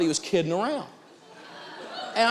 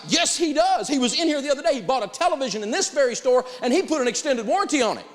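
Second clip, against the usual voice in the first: high, louder, indignant mock insistence; puffed-up salesman; 10 semitones higher, 3 dB louder than usual. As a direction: play the clerk puffing up and shouting back. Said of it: "now he gets all puffed up".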